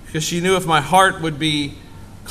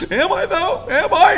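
much higher, laughing, unsure whine; doubtful son; 13 semitones higher, 4 dB louder than usual. Retold or imitated. Pastor as himself doubting his mom, high and laughing. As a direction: play the hurt kid who doesn't believe it. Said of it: "I'm like".

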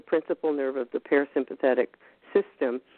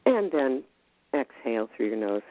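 soft spa whisper. Shown as a demonstration. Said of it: "So here we go".

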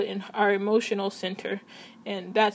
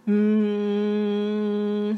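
chest voice demo. Shown as a demonstration. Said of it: "something like that".

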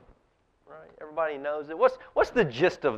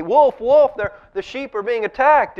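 crying wolf; 9 semitones higher, 7 dB louder than usual. Retold or imitated.

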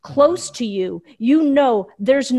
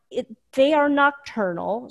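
ordinary talk, nothing marked

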